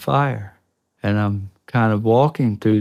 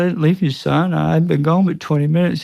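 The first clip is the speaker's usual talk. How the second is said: retold reassurance; 7 semitones higher than usual. Father answers terrified son.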